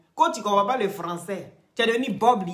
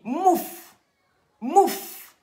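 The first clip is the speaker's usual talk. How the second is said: mocking quote; 7 semitones higher, 3 dB louder than usual. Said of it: "Il dit".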